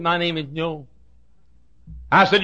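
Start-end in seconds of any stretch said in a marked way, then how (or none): 0.0-0.9 Joe saying Joe as No; speech impediment mimicry. Preacher imitating Joe's impediment, mild mock lisp. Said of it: "He said".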